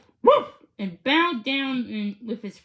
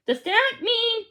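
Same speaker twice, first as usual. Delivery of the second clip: disbelieving; 10 semitones higher than usual. A narrator's reading. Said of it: "could hardly believe it".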